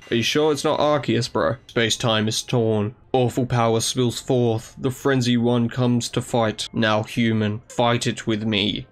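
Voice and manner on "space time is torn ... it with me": deep god voice. Acted. Dialga speaking in the hero's mind, slow and solemn. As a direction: lower and slow, solemn and ominous. Reading Dialga's telepathic message.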